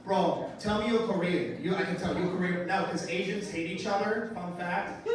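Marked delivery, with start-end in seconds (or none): 0.0-1.6 a hint of the drunk bro; lightly voiced bro line; imitating the bro. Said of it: "one Asian say to another Asian".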